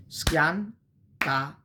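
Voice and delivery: "Schiantare" said slowly as schian-ta-re; teacher breaks the word into syllables; syllabified Italian. Shown as a demonstration. Teacher repeating schiantare for students, syllable by syllable. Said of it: "To crush".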